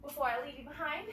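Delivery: out of breath; winded, talking between breaths; running out of air. Real, not acted. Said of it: "I'm running out of breath".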